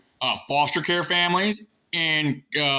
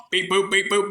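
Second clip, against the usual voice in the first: computer beeps; 4 semitones higher than usual. Pretend. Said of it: "brain computer".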